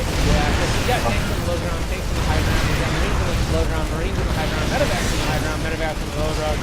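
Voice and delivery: auctioneer. Real, not acted. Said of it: "I sound like an auctioneer".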